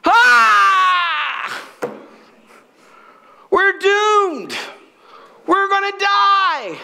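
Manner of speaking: high, loud, panicky wail; hammed-up terror, shouting that all is lost; panicked shout. Preacher playing the frightened servant in a modern panicked shout. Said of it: "Modern, it goes".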